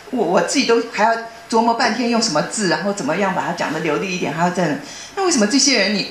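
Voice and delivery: venting at colleagues who push the calls onto her; retold angry outburst. Recalling how she scolded coworkers, mock angry complaint. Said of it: "我会很生气，我就说".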